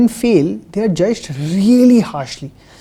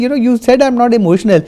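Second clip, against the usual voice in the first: louder and higher, pressing the point; heated challenge; 5 semitones higher, 7 dB louder, faster than usual. Retold or imitated. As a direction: confront her with the proof, worked up. Retold confronting the therapist.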